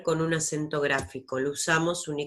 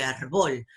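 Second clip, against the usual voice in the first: árbol said as ar-BOL; invented final stress; 3 semitones lower than usual. Shown as a demonstration. Teacher showing an invented word, final stress on árbol. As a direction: put the weight on "bol" in árbol. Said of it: "invento una palabra que no existe".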